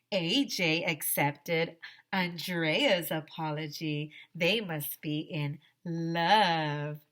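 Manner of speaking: slow, sing-song teasing. Acted. Ryan teasing AJ and Andrea about love. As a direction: drawl out the taunt.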